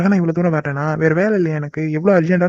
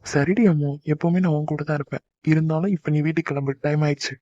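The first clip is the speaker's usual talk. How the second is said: tender hush; 2 semitones lower, 5 dB quieter than usual. Acted. Lover holding her, soothing.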